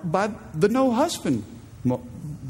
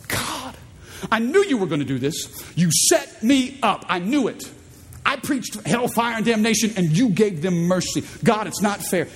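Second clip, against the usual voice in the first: pouty complaint; 4 semitones higher than usual. Acted. Pouting Jonah complaining to God.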